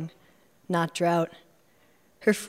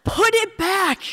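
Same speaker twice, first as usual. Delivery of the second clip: much higher, louder, slow shrieking Put it back; 13 semitones higher, 6 dB louder, slower than usual. Acted. Rose ordering the narrator to drop it, shriek. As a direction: shriek Put with the pitch falling. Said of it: "Rose shrieks".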